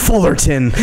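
long repeated F before the word breaks out; imitating a stutter on F; imitated stutter. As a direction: get stuck on the F, then release it. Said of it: "he would stutter on just one letter".

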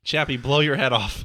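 stiff robot voice. Retold or imitated. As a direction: speak like a clunky robot. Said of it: "Go back to the stupid robot voice".

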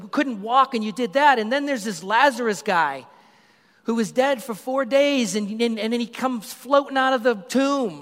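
high, loud, fast-tumbling crowd voice; excited crowd. Retold or imitated. Preacher voicing the crowd cheering Jesus on, excited and loud. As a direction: gush like thrilled townsfolk who saw it all. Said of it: "They're like".

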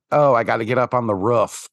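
mocking Midwestern accent, short vowel in "roof". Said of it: "Midwestern accent that I hate".

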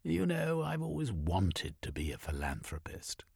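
a hint of a genteel lady; woman's voice. Female character voice in narration.

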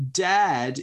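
child's lightly acted plea; pleading. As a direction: plead a little with a parent. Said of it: "you plead".

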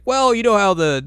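put-on old swordsmith voice. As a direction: pipe up like the old smith explaining. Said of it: "He's like".

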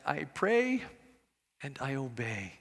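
lightly imitated Korean accent, rising then dropping low and soft. Pastor answering the secret of his success, light Korean accent. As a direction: mimic an elderly Korean pastor's accent, gently. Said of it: "his Korean accent".

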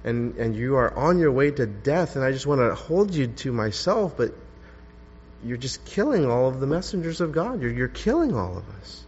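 tender lament. Acted. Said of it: "transport that feeling into what Jesus was saying".

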